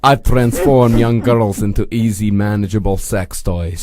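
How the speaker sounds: put-on low, deliberate, light Eastern European accent. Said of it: "an Eastern European company".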